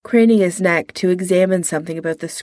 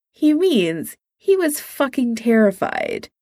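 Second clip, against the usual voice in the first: cheerfully; 4 semitones higher than usual. Acted. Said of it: "Tony said cheerfully".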